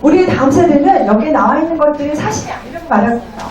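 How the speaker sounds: usual speaking voice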